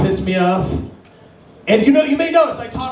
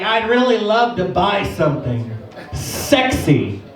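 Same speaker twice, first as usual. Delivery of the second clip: hopeful frumpy wife; 2 semitones lower, slower than usual. Retold or imitated. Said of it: "ugly wives that would come in".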